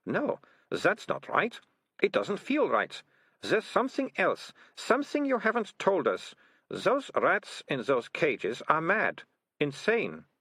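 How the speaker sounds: put-on high, slow, probing girl's voice; suspicious girl. Melissa challenging the ratcatchers' story, slow and suspicious. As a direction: work it out slowly, unconvinced.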